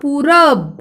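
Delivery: पूरब with a long ऊ, falling end; pronunciation demo. Shown as a demonstration. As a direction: model पूरब clearly for pupils. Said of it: "यानी उच्चारण कैसे होगा?".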